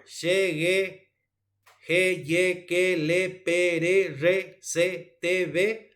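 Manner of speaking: each consonant from "She" to "ve" recited with an E, no nasality; evenly recited syllables like "pe, re, se, te", all through the mouth; oral consonants. Shown as a demonstration. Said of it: "son consonantes orales".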